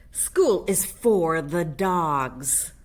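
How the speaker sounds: slow, deliberate, firm declaration; emphatic. Acted. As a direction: lay down the law slowly. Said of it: "stated Mama Junebug Jones emphatically".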